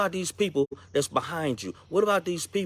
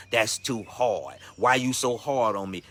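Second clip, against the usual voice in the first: slow, lower, sulky complaint; whiny player; 4 semitones lower, slower than usual. Retold or imitated. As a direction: drag it out like a sulking kid. Voicing a whining player.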